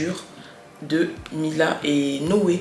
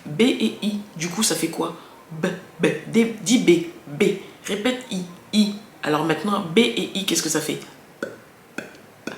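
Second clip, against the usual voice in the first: put-on mother coaching child. Shown as a demonstration. A mother drilling her child on B and I, firm and patient. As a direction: lead a small child through the syllable. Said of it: "mimer fort".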